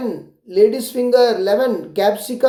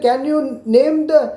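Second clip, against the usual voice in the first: slow question read; 6 semitones higher, much slower than usual. Shown as a demonstration. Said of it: "ऐसे vegetable में पूछ रहे हैं".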